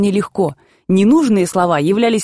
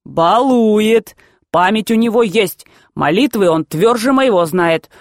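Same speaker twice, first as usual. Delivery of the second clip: ominous grandfather. Acted. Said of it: "Он зловеще говорит".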